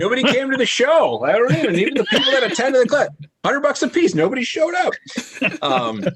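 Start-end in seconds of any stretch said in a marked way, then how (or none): 0.0-4.9 high, laughing through the joke; giggling through a self-mocking joke. Real, not acted. Joking about his failed comedy class.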